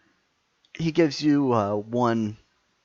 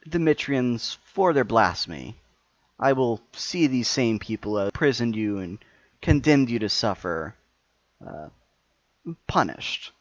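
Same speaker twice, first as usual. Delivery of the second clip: louder, grand villain speech; booming echoing villain monologue; 2 semitones higher, 5 dB louder than usual. Acted. GM villain continues.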